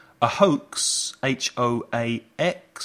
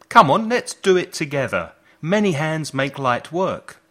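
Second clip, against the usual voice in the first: excited; 5 semitones higher, 5 dB louder than usual. Acted. Teacher rallies learners to repeat.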